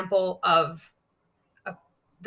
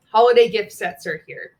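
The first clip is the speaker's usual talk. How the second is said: 1 upbeat promo read; 10 dB louder than usual. Shown as a demonstration. Reads a sample story post.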